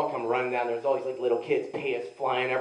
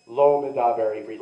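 put-on thick Texas accent; 2 semitones lower, 3 dB louder than usual. Answering screaming cops in Hebrew, thick southern Texas accent. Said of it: "in the thickest southern Texas accent possible".

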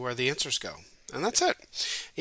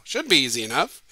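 louder, bright announcing; puzzle-giver line; 5 dB louder than usual. Shown as a demonstration. Teacher performing the puzzle cliché, announcing it louder. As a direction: say it like the classic puzzle setup. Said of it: "That's what you say before you give a puzzle".

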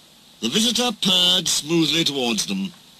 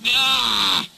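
growl; 10 semitones higher than usual. A narrator's reading. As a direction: growl before slinking off. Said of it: "he growled".

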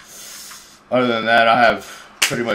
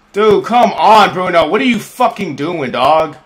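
angry shout; 5 semitones higher, 6 dB louder than usual. Real, not acted. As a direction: rage at the blunder. Raging at a teammate's mistake.

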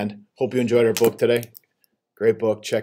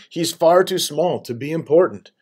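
put-on higher, louder childlike insistence; emphatic dismissal; 7 semitones higher, 5 dB louder than usual. A narrator's reading. Child dismisses the frog as unimportant, emphatic. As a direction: insist on it, pitch raised.

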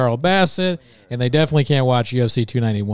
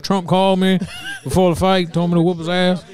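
fighter impression; 6 semitones higher than usual. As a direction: ham up the excited fighter. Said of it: "He's like".

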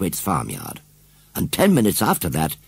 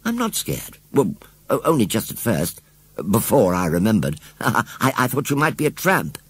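put-on little girl's voice; 2 semitones higher than usual. Susan speaks.

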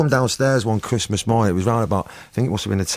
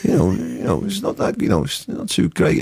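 imitating a singer; 7 semitones higher than usual. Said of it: "he was going".

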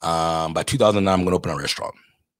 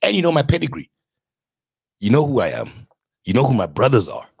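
acted indignation; 5 semitones higher than usual. Acted appeal to would-be investor.

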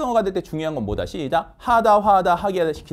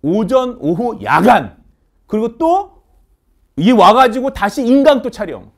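emphatic complaint; 6 semitones higher, 9 dB louder, slower than usual. Real, not acted. Listing the instructors' long workday.

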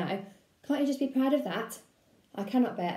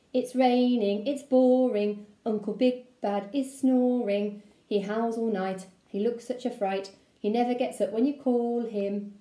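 sing-song poem recital. Acted. Reading his own poem.

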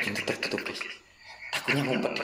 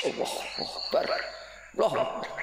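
whispered takbir; 5 dB quieter than usual. Real, not acted. Whispered takbir while scared.

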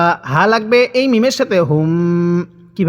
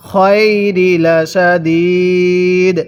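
slow, drawn-out recitation with a long final vowel; Quran recitation demo; much slower than usual. Shown as a demonstration. Teacher reciting for students to read along, measured Quran recitation. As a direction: model it slowly for learners. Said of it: "আমার সাথে মিলিয়ে পড়ুন".

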